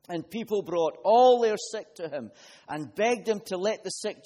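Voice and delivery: preacher reading Matthew to the congregation; scripture reading. Acted. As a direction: read the passage out to the church with force. Reads scripture passage aloud.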